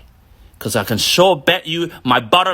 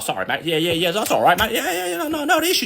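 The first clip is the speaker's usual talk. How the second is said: meek apology; 4 semitones higher, faster than usual. Retold or imitated. Apologising to the aggressive man, timid and high.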